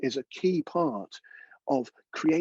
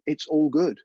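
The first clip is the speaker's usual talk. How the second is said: reassuring; 2 semitones higher, 7 dB louder, slower than usual. Shown as a demonstration. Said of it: "your brain down saying".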